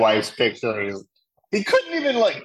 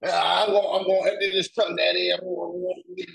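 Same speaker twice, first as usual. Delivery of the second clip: raised, eager obedient son; 8 semitones higher than usual. Retold or imitated. Son eagerly answers his dad, high and quick. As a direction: chirp it like an eager boy. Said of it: "he's like".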